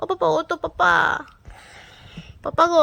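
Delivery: high, loud sing-song calling voice.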